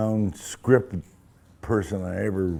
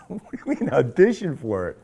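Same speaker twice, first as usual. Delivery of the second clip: mock indignant; 8 semitones higher, 4 dB louder than usual. Retold indignant reply to director.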